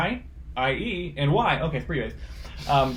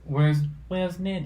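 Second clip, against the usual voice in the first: slow, mock French accent; 5 semitones higher, slower than usual. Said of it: "That's my French accent".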